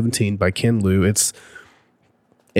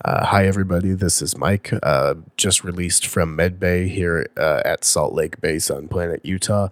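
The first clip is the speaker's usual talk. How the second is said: hoarse, nearly gone voice; raspy whisper; 2 semitones lower, 3 dB quieter than usual. Real, not acted. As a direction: talk through a lost voice. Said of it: "This is all the voice I've got".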